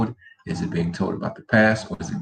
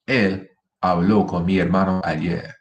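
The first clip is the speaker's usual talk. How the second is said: habló stressed on the final -BLÓ; stress on final syllable. Shown as a demonstration. Teacher showing past tense in a sentence, final stress on habló. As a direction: lean on the end of habló. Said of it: "how the accent makes the difference".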